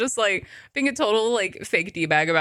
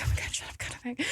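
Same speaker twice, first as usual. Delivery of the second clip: whispered excitement; 5 semitones higher, 10 dB quieter, faster than usual. Retold or imitated. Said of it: "And they're like".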